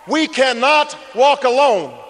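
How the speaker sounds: slow, ringing quote of a preacher; measured echo of a preacher's call; preacher's cry. Retold or imitated. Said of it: "the preacher cried".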